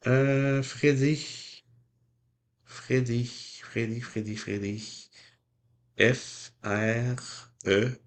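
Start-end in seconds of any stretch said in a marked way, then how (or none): 2.6-5.1 fading mutter. Real, not acted. Musing over a name.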